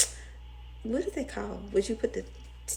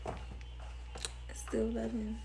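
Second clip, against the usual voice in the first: softly; 4 semitones higher, 10 dB quieter than usual. Real, not acted. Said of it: "So, I still love him".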